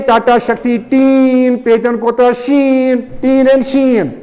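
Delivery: टीन and शीन with the long "een" drawn out; टीन, शीन held on the same rhyming sound; rhyme demonstration. Shown as a demonstration. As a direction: stretch the matching endings of टीन and शीन. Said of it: "जब same sounds होंगे".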